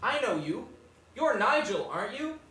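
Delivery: lightly imitated posh child; a little kid's posh accent, gently mimicked. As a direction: put on a small, posh boy's voice. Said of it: "he's got this posh little voice".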